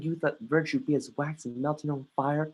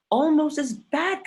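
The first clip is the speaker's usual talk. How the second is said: accusing; 13 semitones higher, 6 dB louder, slower than usual. Acted. Hamlet accuses queen.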